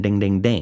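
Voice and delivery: ding out the strokes of a bell; imitated bell ringing. Fella in the park ringing a bell, imitated dinging. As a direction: mimic a handbell with words. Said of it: "this fella started ringing a bell".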